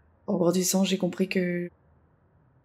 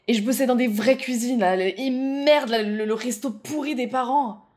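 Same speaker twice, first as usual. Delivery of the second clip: worked up; 4 semitones higher than usual. Acted. Worked-up recall of proving herself.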